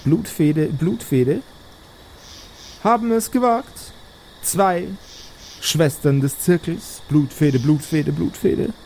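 witch voice chanting a refrain between words; eerie hag skull announcing doom; cackling witch skull. Acted. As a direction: croak the bounty like a hag's broadcast. Talking skull of the hag speaks.

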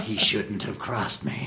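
put-on low, slow menacing American accent; slow low American threat. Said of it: "Do you like doing the American accent?".

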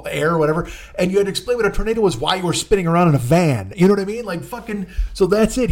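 ordinary talk

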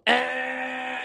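a high mock grunt of approval; mom's approving grunt. Host imitating his mom rewarding him. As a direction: imitate mom's quick praise sound. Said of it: "my mom would go".

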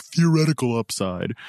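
lightly put-on fantasy-nerd voice; mock a fantasy football asshat with a silly voice; asshat fantasy person. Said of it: "What was that voice?".

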